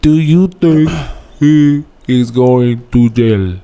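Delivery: news reporter voice. Pretend. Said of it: "You sound like a news reporter".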